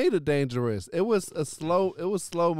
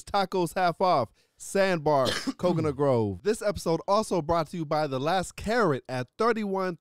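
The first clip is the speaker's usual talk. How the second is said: brisk announcer-style sponsor read; 3 semitones higher than usual. Acted. Host reading sponsor spots to listeners, ad read. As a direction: read out the sponsor's details like a radio spot.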